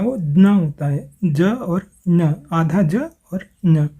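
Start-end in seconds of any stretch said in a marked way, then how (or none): 0.2-0.4 ज्ञ as j blended into n; pure Sanskrit pronunciation. Shown as a demonstration. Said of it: "शुद्ध उच्चारण जो संस्कृत में होता है". 1.2-3.9 slow "ja" and "nya", each sound set apart; sounds shown separately. Shown as a demonstration. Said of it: "शुद्ध उच्चारण जो संस्कृत में होता है".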